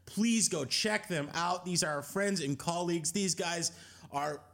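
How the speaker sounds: soft steady promo read; podcast outro read. Acted.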